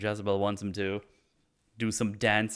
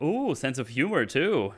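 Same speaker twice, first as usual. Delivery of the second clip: high, mock-flirty teasing; 5 semitones higher, 3 dB louder than usual. Palm reader reacting to his joke, playfully flirty. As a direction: coo it with playful approval. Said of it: "It's a bit flirty".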